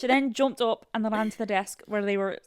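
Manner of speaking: put-on amateur Scottish accent; attempted Scottish accent. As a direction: read it with a shaky grasp of Scottish. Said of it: "My, my friend Molly is Scottish".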